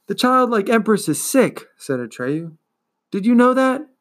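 put-on boy hero urging the indifferent turtle; urgent boy. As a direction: press her with urgency.

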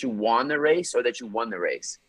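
first "won" as wahn, second "won" as wun; two pronunciations contrasted. Shown as a demonstration. Guest asking host which he says, contrasting "won" vowels. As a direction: offer "won" with an open AH, then with UH. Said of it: "what do you say?".

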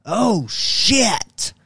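high-pitched mock dismay; retold shock. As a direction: squeak it out like you just got caught. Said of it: "And I was like".

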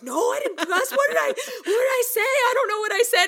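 high, loud mock panic through laughter; defensive. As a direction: protest your innocence, freaking out. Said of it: "like, defensive".

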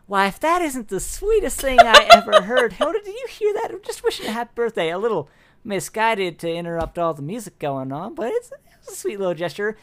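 high, bright gushing delight; gushing sweet guard. Acted. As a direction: coo over it like a sweetheart. Cheerful guard voiced.

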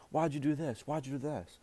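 half-yelled parental demand, lightly acted; mock parental screaming. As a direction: imitate a parent scolding a kid. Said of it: "but they scream at him".

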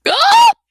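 high, loud choked squawk. A narrator's reading. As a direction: squawk as she grips him. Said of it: "Clay squawked".

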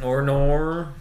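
loud, drawn-out Australian "Or nor"; stereotypical Australian accent. Shown as a demonstration. Repeating the bit for friends, exaggerated Australian accent. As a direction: draw out "Or nor" as a cartoon Australian. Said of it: "like the stereotypical Australian accent".

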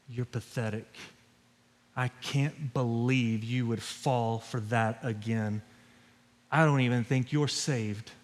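low, soft, taunting murmur; the enemy whispering. Acted. Pastor voicing the enemy taunting a fallen believer, low and soft. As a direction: lean in and sneer it softly, like a tempter at your ear. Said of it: "he begins to whisper in your ear".

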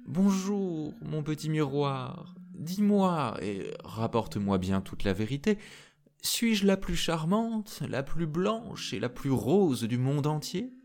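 high, coaxing sing-out with a smile; smiling tsarina. Acted. Tsarina questions her magic mirror, smiling and coaxing. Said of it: "et souriante, lui dit".

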